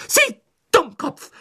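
high, slow outraged shout. Acted. Professor shouts at the minister in outrage, high and loud. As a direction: scream the insult at him. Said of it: "schrie Professor McGonagall".

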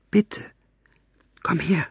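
hushed, pleading whisper. A narrator's reading. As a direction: coax it closer under your breath. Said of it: "flüsterte sie".

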